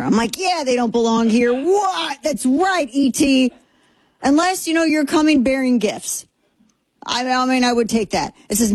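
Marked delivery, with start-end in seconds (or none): 0.4-6.3 mock excitement. Mock-excited reading reaction.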